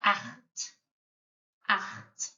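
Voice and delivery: Acht with a rasping throat-clearing ch; throaty ch. Shown as a demonstration. Teacher demonstrating the rasping ch in Acht. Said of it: "you're clearing your throat".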